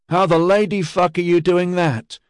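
can't believe what he's seeing; dazed disbelief. A narrator's reading. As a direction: sergeant stunned watching Ediard survive the fall. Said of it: "Che's dazed voice asked".

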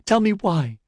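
high, imploring demand; pleading. A narrator's reading. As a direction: beg him to explain, pitched well up. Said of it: "she pleaded".

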